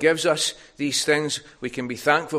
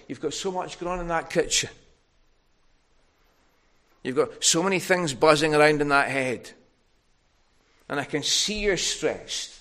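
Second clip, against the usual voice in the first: tender; 4 semitones higher, 5 dB louder than usual. Retold or imitated. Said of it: "he speaks so tenderly".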